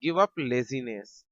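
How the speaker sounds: very slow teacher dictation; deliberate classroom demo; slow model sentence. Shown as a demonstration. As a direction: drag each word out for learners. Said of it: "teacher models English sentence".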